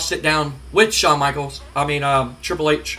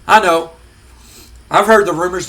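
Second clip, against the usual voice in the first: mock angry father; 6 dB louder than usual. Vince confronting The Rock.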